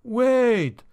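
high-pitched, mildly alarmed quaver. A narrator's reading. Innkeeper halting the axe at his door, high quaver. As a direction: pitch it right up, a touch fearful. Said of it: "the quavering voice said".

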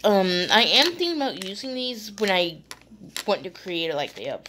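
halting, tripping over words; stuttering. Real, not acted. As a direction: stammer through it, restarting. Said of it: "Sorry, I'm stuttering and all".

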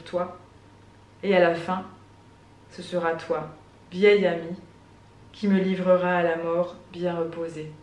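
intimate poem recital, line by line; poetry reading. Acted. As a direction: recite it in short phrases with long pauses. Reads second poem aloud. (lecture de poème, posée, avec des silences)

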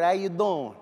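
lightly voiced New York cat; casual New York swagger; New York attitude. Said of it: "They always have that attitude".

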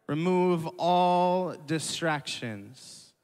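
slow, rising on "all"; slow repeated point. Shown as a demonstration. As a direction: repeat it slowly for notes. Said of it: "I have three points".

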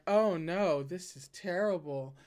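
lightly hammed-up fake protest; half-hearted theatrical stop; mock distress. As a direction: playfully whine it, not really meaning it. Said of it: "as opposed to the tone of".

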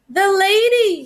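high loud call into the rain; lost dog calling for his owner. A narrator's reading. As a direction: call out for her, worried. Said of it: "he called".

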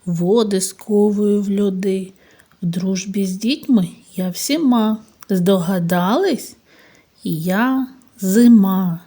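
a hint of a riddle-telling voice; lightly storytelling rhyme; poem recital. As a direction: recite the rhyme to little ones.

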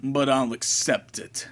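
lightly voiced, disdainful knight; a hint of a cold, scornful swordsman; cool servant voice.

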